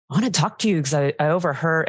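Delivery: surfer voice. Retold or imitated. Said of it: "He doesn't talk like a surfer".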